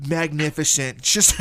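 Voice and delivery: lightly put-on politician impression; a hint of the politician answering; Donald Trump. Answering the host's question as the politician, light impression. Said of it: "Mister Donald Trump?".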